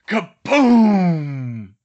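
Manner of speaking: loud, drawn-out explosion word; booming sound effect. A narrator's reading. Narrator sounds the explosion downstairs, big loud boom. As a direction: boom it out high, then let it fall.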